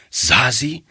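plain reading voice

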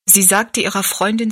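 usual speaking voice

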